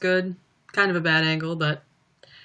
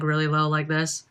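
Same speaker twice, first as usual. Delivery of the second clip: a lower, softer speaking voice; low voice demo; 4 semitones lower, 4 dB quieter than usual. Shown as a demonstration. Telling fans how she used to talk, a bit lower. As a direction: show your old low voice, lightly. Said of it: "I used to talk".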